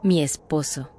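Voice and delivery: low, level and unbothered; calm defiance. Retold or imitated. The woman answers the narrator calmly and defiantly. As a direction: state it coolly, daring him to judge. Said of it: "Me miró tranquila, hasta desafiante".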